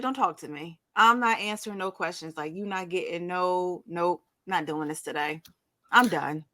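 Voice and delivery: low, dismissive imitation of a contestant; fed up, done. Contestant refusing all questions after her dish, done with it. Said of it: "Kennedy was done".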